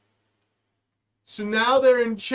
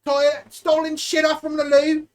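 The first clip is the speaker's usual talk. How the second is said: mock dispatcher; 3 semitones higher than usual. Dispatcher radio call acted.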